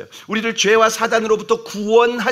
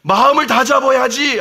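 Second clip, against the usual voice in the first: scolding Peter; 4 semitones higher, 4 dB louder than usual. Retold or imitated. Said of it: "막 예수님을 혼내고 책망하고".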